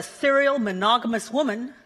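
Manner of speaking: "serial" given a little extra weight; stress on "serial". Real, not acted. Speaker confessing her many relationships, stress on "serial". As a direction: lean on the word "serial". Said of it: "emphasis on serial".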